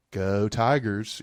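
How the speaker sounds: slow, dry sarcastic go Tigers. Shown as a demonstration. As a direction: drag it out with sarcasm. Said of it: "So maybe it was sarcastically".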